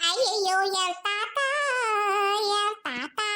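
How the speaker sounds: slow drawn-out fake lament for grandpa; mock wailing. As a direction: wail it like a hired mourner, hammed-up. Mock oppari wailing at funeral. (போலி ஒப்பாரி அழுகை)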